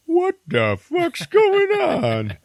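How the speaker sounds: high, drawn-out shouted demand; John Lithgow barging in with a high, stretched yell. Retold or imitated. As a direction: bark it as you storm in. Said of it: "John Lithgow walks in".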